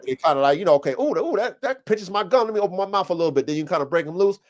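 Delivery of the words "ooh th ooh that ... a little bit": higher mock whine of a dog, rushed at the end; voicing the dog. Explaining a breaking stick to a friend, voicing the dog in a higher mock whine. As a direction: play the dog giving in, hurrying to let go.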